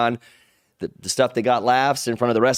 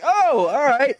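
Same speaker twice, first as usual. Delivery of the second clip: high mock "oh, all right" with no interest; mock unimpressed; 4 dB louder, slower than usual. Open mic crowd on their phones, giving a high bored "oh, all right". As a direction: play the half-listening crowd, shrugging it off.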